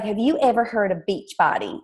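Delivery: lightly imitated sweet Southern accent; touch of a sweet Southern voice; Jackie Woodfin. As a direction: ask it in a mild Southern accent. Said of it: "I'm gonna do her accent".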